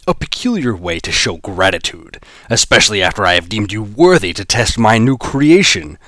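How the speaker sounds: a hint of a gloating villain; lightly voiced menacing boss.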